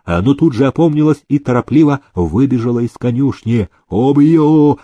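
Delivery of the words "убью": loud furious yell, higher. Acted. Groom yelling after the fleeing housekeeper. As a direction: roar the threat after her. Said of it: "орал конюх".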